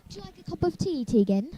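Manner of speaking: playful put-on British accent; entertaining viewers with a jokey British accent; formal British accent. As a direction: offer the tea in a mock formal British accent. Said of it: "I will entertain you with my British accent".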